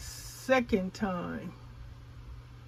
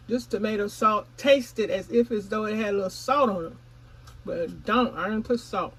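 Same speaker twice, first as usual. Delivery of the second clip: mouth full; 4 dB louder than usual. Real, not acted. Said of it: "Excuse me for talking while I'm chewing".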